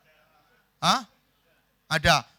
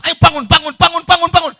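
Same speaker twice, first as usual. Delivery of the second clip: high, loud, repeated wake-up yells; frantic shouting; 12 semitones higher, 15 dB louder, faster than usual. Acted. Friend chasing sleeper awake, shouting repeatedly. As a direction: yell it over and over, urgently.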